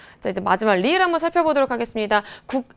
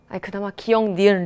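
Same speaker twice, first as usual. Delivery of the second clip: normal talking voice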